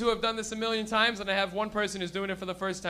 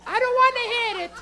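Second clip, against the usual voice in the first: high, louder protesting nonna; hammed-up Italian grandma refusal; 12 semitones higher, 5 dB louder than usual. Comic as nonna offered a smoke, high mock protest. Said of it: "Nonna, hit this".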